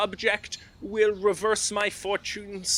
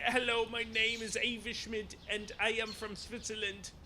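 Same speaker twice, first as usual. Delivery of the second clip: quiet aside; 11 dB quieter, faster than usual. Acted. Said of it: "how would you say".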